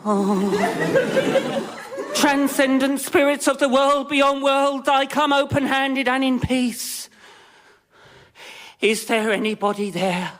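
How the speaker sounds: hushed, grand medium calling the spirits; hammed-up spirit medium. Stage medium calling to the spirits, mock mystical. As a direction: invoke the dead like a stage psychic.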